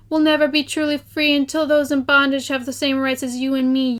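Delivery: a hint of a proud speech; quoting Laurens. Quoting Laurens' line about freedom, lightly proud. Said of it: "He said".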